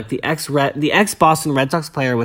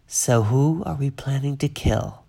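Mary Louise quip; 5 dB quieter, slower than usual. Retold or imitated. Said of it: "Mary Louise pipes up".

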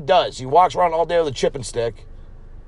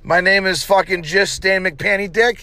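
hammed-up host; 7 semitones higher than usual. Host welcoming listeners to episode one, high goofy voice. Mock host intro, put-on voice.

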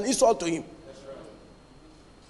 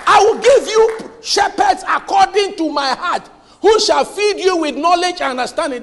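loud scripture proclamation; 4 semitones higher, 4 dB louder than usual. Real, not acted. Preacher quoting scripture loudly.

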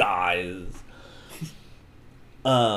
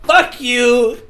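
high, loud, hammed-up monologue; mock villain rant; 10 semitones higher, 7 dB louder, slower than usual. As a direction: bellow the master plan as a cartoon villain. Plays villain's ranting reveal speech.

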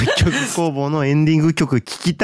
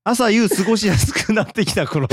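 poetic; 8 semitones higher than usual. Pretend. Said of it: "どうした？".

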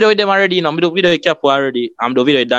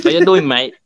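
light mock English accent, a touch higher; English twang; 6 semitones higher than usual. YouTuber retells a tourist greeting a Jamaica vendor, mock English accent. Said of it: "the person come with the English twang".

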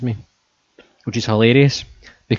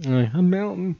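melting witch; 8 semitones higher, 4 dB quieter than usual. Retold or imitated. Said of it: "that's not how she sounds in the movie".

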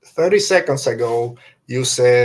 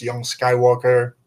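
Emperor voice. Retold or imitated. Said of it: "The way he says".

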